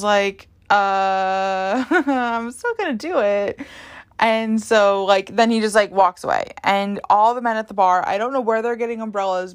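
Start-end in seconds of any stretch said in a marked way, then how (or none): 0.7-3.6 laughing defiance. Retold or imitated. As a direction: laugh through a slow, amused refusal. Defiant reply to drunk guy.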